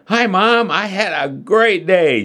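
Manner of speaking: high-pitched, bubbly delight; excited exclamation. A narrator's reading. Daughter bursting through the door to her mother, exclaiming excitedly. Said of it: "she exclaimed".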